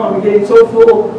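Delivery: very high whine on so full; mock fullness. Rabbit pretending to be too full to drink, mock. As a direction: overact being stuffed.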